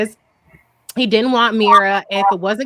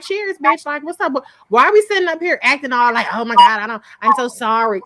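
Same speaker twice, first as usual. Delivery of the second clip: gleeful toast; 2 semitones higher than usual. Retold or imitated. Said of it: "I would just be like".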